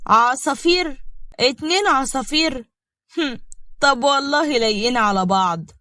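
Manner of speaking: mildly scornful, mocking questions; spiteful contempt. Mourad cutting in on the newlyweds with spiteful contempt. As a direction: sneer lightly at the lovebirds. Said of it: "بيتكلم بغل، وهو بيبص لمي باحتقار".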